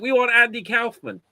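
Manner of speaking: mock audience calling for the star; demanding audience. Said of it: "they'd be like".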